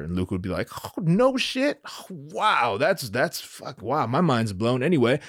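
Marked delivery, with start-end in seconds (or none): 0.8-4.8 drawn-out mock amazement; stunned. Luke hears Leia is his sister, mock stunned.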